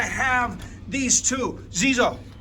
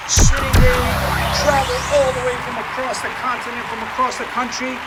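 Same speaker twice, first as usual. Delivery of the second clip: showman calling a toy race; race announcer. Acted. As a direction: announce it like a stadium host.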